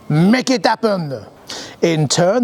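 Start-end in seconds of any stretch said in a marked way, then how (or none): 0.1-1.3 drawn-out mock French shout, only lightly raised; a slow, hammed-up order in a French accent. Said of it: "and shouted at the design department".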